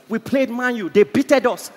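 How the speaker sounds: loud, confident football boast; confident sports argument. Retold or imitated. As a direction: imitate a cocksure fan arguing sports. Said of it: "With confidence".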